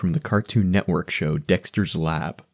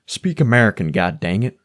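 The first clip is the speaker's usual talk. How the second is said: ignorant American; 2 semitones higher, 4 dB louder than usual. Retold or imitated. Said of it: "the ignorant American".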